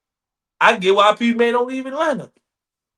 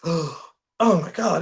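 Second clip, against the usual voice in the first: drawn-out, very slow pretend amazement; mock awe; much slower than usual. Asking what amazes about Minnesota, mock awe. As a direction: marvel very slowly, as a put-on.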